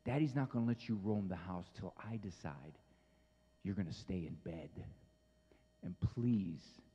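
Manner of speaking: low, soft, steady bedtime firmness; calm firm dad. Retold or imitated. Dad quietly tells his son to stay in bed, low and calm. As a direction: settle the boy down quietly but firmly. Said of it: "I said".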